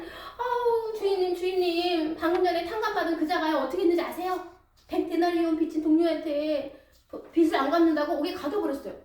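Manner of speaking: an upset servant rushing to tell on him; indignant report. Acted. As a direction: tattle urgently to the master. Fellow servants report to master.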